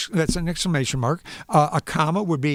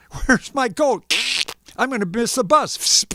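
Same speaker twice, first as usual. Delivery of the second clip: put-on kids yelling; 6 semitones higher than usual. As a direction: yell it like a late child. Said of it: "kids came running and yelling".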